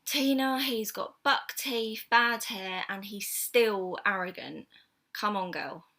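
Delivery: lightly voiced disapproving friend; Carol's disapproval. Friend talks Tina out of liking him, lightly acted disapproval. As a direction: list his faults slowly, punching the first words. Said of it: "Carol didn't like him from the off".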